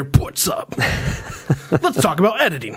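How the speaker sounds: lightly imitated YouTuber intro; breathy, laughing vlog host greeting; Peter McKinnon voice. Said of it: "This is my Peter McKinnon voice".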